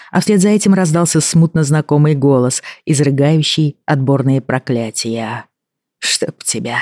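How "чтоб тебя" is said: sleepy grumble, softer; grumbling. Acted. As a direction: mutter it, half awake. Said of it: "проворчал Бен".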